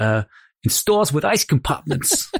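bad cheesy advert-style Brooklyn accent, high and slow. Speaker quoting the closing phrase of a 1990s advert, bad brooklyn accent. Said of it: "me doing a good impression of the bad Brooklyn accent".

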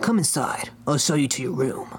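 words ground out in a gravelly voice. Reading a story aloud, Batman invites the octopus inside in a gravelly whisper. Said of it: "King of Hell. ... he said in a voice that sounded of the whisper of gravel".

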